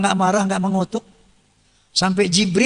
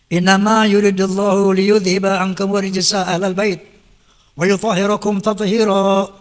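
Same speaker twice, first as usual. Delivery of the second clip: Quranic recitation. Acted. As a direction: intone the verse like in prayer. (lantunan ayat Al-Quran)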